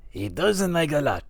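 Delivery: lightly voiced mobster, mumbled; a hint of Silvio Dante grumbling; Silvio impression. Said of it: "This is Silvio".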